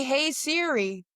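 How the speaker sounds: slow, stretched "Hey, Siri"; drawn-out Siri call. Shown as a demonstration. Telling friends how to text, slow and drawn out. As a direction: drag out "Hey, Siri" like calling the phone. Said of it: "Maybe say".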